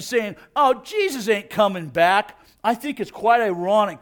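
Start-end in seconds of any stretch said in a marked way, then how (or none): 0.6-2.4 mock the doubters with a swooping jeer; lightly acted derision; scoffing, mocking. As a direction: imitate a dismissive scoffer. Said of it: "men and women who are scoffing and mocking".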